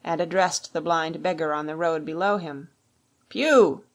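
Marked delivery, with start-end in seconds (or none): 3.3-3.8 loud, higher hail from a window; raised shout of a name; calling out. A narrator's reading. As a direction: call down to a man below. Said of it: "he cried".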